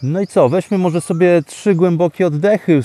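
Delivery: ordinary delivery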